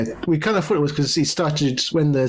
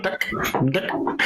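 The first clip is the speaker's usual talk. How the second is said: put-on South African accent. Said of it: "like South African sort of accent".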